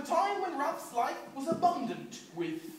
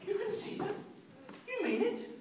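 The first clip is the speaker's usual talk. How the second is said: higher, eager disbelieving questions; amazed; 9 semitones higher than usual. Acted. Ralph asks Auntie Em, amazed. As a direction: ask in wide-eyed amazement. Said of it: "quite amazed".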